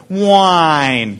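a long, complaining "whine" sound; whiny whine. Shown as a demonstration. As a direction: draw out a nasal-free whiny "whine". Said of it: "do it in a whiny voice".

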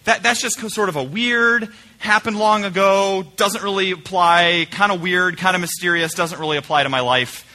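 mock brushing-off, words dragged out; dismissive. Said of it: "put these off to the side and we say".

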